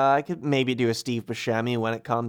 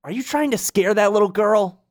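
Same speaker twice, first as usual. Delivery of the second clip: put-on higher-pitched young hero questioning; Sora; 8 semitones higher than usual. Hero confronts monsters over a little girl, higher-pitched. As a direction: challenge them in a lifted, higher voice. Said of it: "Sora says".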